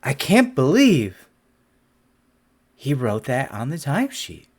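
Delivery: imitating an appalled juror; stunned juror. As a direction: play a juror shocked by the evidence. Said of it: "really make people like".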